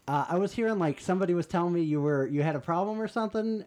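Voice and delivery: high, falsely concerned imitation; passive-aggressive. Angela confronting a woman about her complaint, passive-aggressive. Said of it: "passive aggressive".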